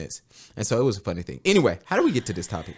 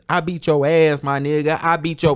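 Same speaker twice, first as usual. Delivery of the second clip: mock threat; 5 semitones higher, 4 dB louder than usual. Mock threat to would-be DM sliders.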